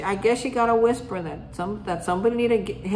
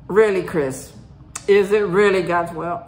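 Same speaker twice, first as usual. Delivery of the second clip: louder, doubting, pressing him; skeptical challenge; 6 dB louder than usual. Retold or imitated. Friend doubting his claim of God's will, skeptical and louder. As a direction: push back hard, you don't buy it.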